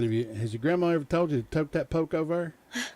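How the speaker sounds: lightly Southern country saying; Southern dialect phrase. Shown as a demonstration. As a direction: say it like an old Southern grandma would. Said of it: "if you can understand what I'm saying".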